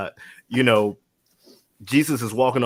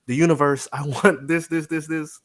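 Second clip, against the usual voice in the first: universe asker; 5 semitones higher, 3 dB louder than usual. Retold or imitated. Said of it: "an individual that's like".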